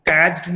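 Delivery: कैच्ड ending in a voiced "d". Shown as a demonstration. Teacher showing learners what not to say, कैच्ड with a voiced d. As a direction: wrongly end कैच्ड on a d sound. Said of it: "ये नहीं कि हम ड की तरह pronounce करेंगे".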